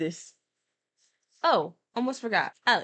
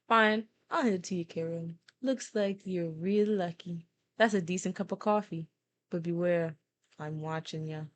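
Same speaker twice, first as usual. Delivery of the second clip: attempted New York accent, grudging rival. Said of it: "Let's do my best New York accent".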